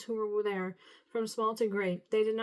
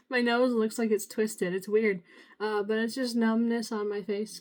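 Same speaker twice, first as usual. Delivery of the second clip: numb from the dentist. Real, not acted.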